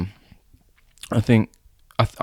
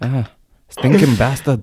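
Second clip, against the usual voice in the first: put-on slow, drawn-out Scottish accent; mock Scottish accent; 3 semitones higher, slower than usual. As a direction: ham up the Scottish insult slowly. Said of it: "do you say "we"?".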